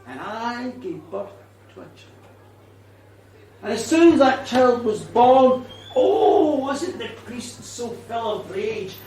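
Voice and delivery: a bitter ghost telling her story, often hushed; a hint of an old Irish ghost, brooding; vengeful ghost woman. Witch tells her own story.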